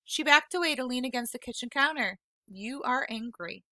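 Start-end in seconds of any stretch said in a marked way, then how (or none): 2.4-3.6 said simply. Acted. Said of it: "she said simply".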